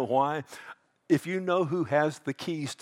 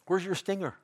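higher, teasing taunt; mocking; 4 semitones higher, 3 dB quieter than usual. Preacher mocks death as Paul did, teasing. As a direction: tease a beaten enemy, pitched up. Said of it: "He's mocking it".

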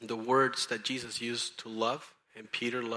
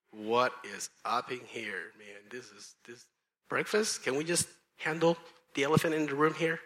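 baffled protest. Retold or imitated. Peter reacting to a breakfast invitation, mock baffled protest. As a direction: act out exasperated disbelief, lightly hammed-up.

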